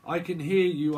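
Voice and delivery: high, loud spacey alien greeting; high loud alien radio call. Retold or imitated. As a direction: play a spaceman calling in. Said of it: "It's like".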